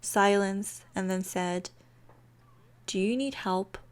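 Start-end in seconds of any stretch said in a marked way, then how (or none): 2.9-3.8 soft, gentle offer of help; a touch of sweetness, softened; sweetest tone. Acted. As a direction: say it softly and kindly, in earnest. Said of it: "but in his sweetest tone".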